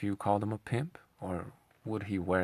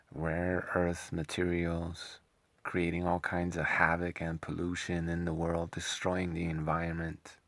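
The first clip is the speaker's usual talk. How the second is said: mocking impression. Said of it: "telling us about".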